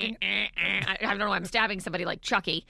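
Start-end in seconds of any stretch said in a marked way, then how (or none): 0.0-0.8 imitated grunts. Shown as a demonstration. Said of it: "what does the eye thing sound like".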